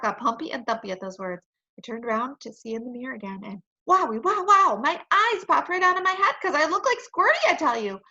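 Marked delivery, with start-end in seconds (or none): 3.9-7.5 higher, louder astonishment; wide-eyed wow; amazed. A narrator's reading. Narrator child amazed.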